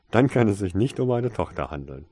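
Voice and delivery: loud amused retort after a laugh. A narrator's reading. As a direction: tease loudly, fresh from laughing. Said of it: "lachte Mister Darkcloud".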